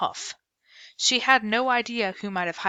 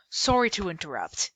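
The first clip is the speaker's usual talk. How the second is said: polite British. Acted. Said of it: "he said politely".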